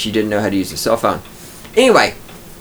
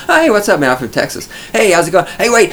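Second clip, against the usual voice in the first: much higher, hammed-up eager hello; overeager greeting; 7 semitones higher, faster than usual. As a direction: play a desperate attention seeker. Mock attention-seeking Texan greetings.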